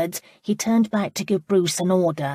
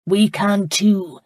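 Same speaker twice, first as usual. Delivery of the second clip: rallying; 3 semitones higher, 5 dB louder, slower than usual. Acted. Laird rallies the crowd.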